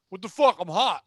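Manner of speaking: loud indignant complaint; overheated customer complaining about no pools, loud; whiny customer outburst. Retold or imitated. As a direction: blurt it out loud like an entitled shopper.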